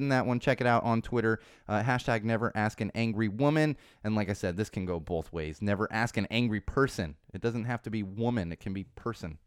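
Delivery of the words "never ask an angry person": ordinary delivery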